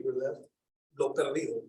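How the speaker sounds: ordinary delivery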